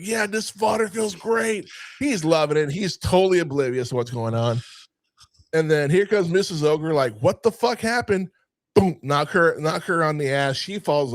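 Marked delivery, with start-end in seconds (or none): 0.0-1.7 high, drawn-out mock bliss; loving it. Ogre oblivious in the water, imitated slow delight. 7.2-8.3 higher-pitched imitated wife; mock startled. Ogre's wife arriving at the scene, mock bewilderment.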